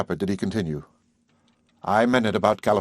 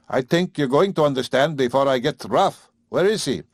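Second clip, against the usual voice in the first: put-on a touch higher gruff old man's warning; threatening farmer; 4 semitones higher, 3 dB louder than usual. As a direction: threaten her with rough impatience. Father threatens her.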